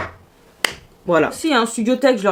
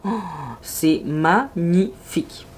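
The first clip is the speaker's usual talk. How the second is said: awed gasp; 5 semitones lower, 5 dB quieter, slower than usual. Real, not acted. Gasps at the shimmer.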